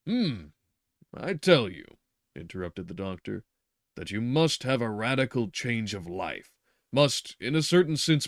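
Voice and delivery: doctor overriding his patient; interrupting doctor. Acted. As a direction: cut him off with authority.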